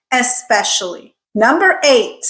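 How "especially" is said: especially as es-SPESH-ully; as written. Shown as a demonstration. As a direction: say especially with a clean S, no K. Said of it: "say it the way it's written".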